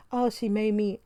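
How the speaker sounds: half-hearted pretend weeping, words stretched; mock crying. Reviewer mimicking husband blaming her for what he did, mock crying. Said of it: "then he's crying and he's talking about".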